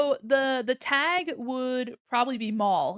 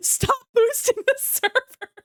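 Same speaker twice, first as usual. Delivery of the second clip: pleasantly surprised; 10 semitones higher, 7 dB louder than usual. Real, not acted. Laughing at repeated gift boosts.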